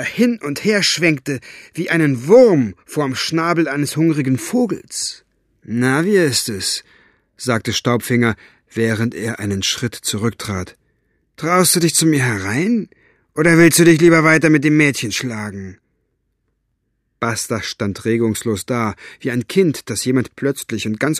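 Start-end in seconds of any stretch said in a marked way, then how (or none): 5.6-15.8 lightly voiced mocking challenge; taunting rogue. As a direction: goad him coolly. Staubfinger taunting Buster.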